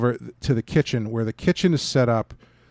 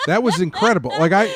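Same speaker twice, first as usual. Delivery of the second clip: excited; 7 semitones higher, 6 dB louder than usual. Real, not acted. Excited praise.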